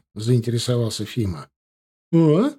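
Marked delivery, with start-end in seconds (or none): 2.1-2.5 put-on loud, resonant old lady's call; booming old woman voice. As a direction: boom out the question like a deaf granny. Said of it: "зычным голосом отозвалась старушка".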